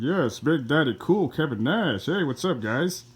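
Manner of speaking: swooping, sing-song wrestler voice; big rolling pitch swings, a hammed-up wrestler greeting; Kevin Nash impression. Wrestler greeting the fans, swooping amateur impression. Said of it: "That's my best Kevin Nash impression".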